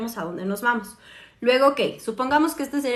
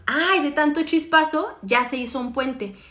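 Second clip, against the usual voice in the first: mock relieved brain; 3 semitones higher, 3 dB louder than usual. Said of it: "después hacemos".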